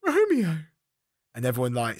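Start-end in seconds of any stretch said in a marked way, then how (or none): 0.0-0.6 high, loud theatrical calling; hammed-up Juliet. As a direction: call out for a lover in an exaggerated high stage voice. Acting Juliet's scene on stage.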